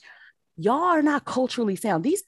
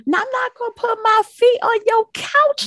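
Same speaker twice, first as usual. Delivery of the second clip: higher, louder scolding voice; hammed-up elder warning; mock grandma; 12 semitones higher, 6 dB louder than usual. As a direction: play the offended elder. Acting grandma.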